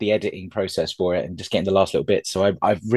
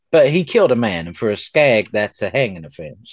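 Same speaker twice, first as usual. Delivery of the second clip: a hammed-up bad cowboy accent, a bit louder; lightly put-on bad cowboy accent; 4 dB louder than usual. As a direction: play the Western lawman in a clumsy cowboy accent. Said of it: "offending everyone with this bad accent".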